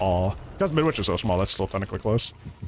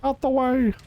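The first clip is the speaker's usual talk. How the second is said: frustrated yell; 11 semitones higher, slower than usual. Real, not acted. Yelling at blocking chair leg.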